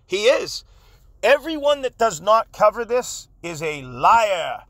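real indignation, stretched key words; angry. Real, not acted. Host denouncing lying content creators to his viewers, angry. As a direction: denounce them emphatically, drawn out. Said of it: "but I'm angry".

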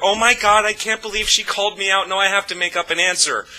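mock indignant panic, pitched high; Phelan Palin. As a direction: imitate a flustered politician caught out, high voice. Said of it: "does her".

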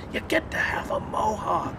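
high, drawn-out announcement; gleeful good news. Retold or imitated. Director tells actor the good news, high mock glee. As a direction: imitate a director proudly breaking silly news.

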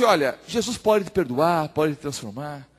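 unhurried, softening words of hope; gentle reassurance. Acted. Pastor offers hope to the despairing young man, gentle reassurance. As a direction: reassure slowly, letting it drop softly.

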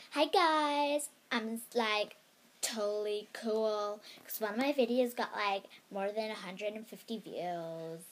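light put-on American teen accent, bubbly. Kid vlogger mimicking an American YouTuber for her viewers, light American accent. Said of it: "I'm going to do my American accent".

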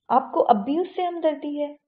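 stunned and offended at once; angry disbelief. A narrator's reading. Ashar confronting Fateh about his sympathy, angry disbelief. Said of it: "بے یقینی اور غصے سے پوچھا".

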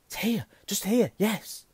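high, loud bursts of excitement; excited discovery. Acted. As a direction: exclaim in short, thrilled bursts, pitch right up. Harry spots the hidden door.

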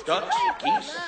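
very high squeaky puppet; squeaky ventriloquist dummy. Acted. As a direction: shriek it like a puppet. Dummy shrieks.

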